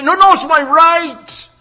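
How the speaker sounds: loud, high mock protest; hammed-up whine of someone demanding rights; mock indignant voice of the entitled; mocking entitled person. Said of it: "how many people today say".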